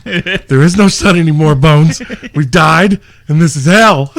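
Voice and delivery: a hint of a doomed soldier; movie quote. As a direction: quote the film with mock gravity. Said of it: "Bill Murray at every installation".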